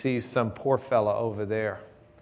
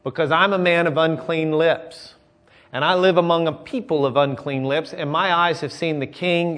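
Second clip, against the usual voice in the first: retold anguished cry; 5 semitones higher, 4 dB louder than usual. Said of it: "I cried".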